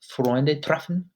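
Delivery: "treffen" quick, with the r rolled. Shown as a demonstration. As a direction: snap out "Freunde treffen" fast. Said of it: "it should be quick".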